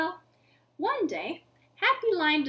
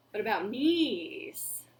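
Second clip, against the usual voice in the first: whisper; 5 semitones lower, slower than usual. Real, not acted. Whispered question to kids.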